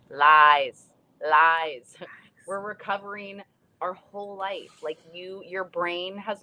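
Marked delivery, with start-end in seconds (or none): 0.1-2.0 a loud, scornful double "Lies, lies"; blasting out "lies" at the claim that recovery stops; loud scoffing "lies". Real, not acted. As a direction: shout the doctors down. Scornful rebuttal of doctors' claim.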